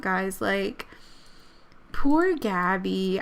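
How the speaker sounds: ordinary talk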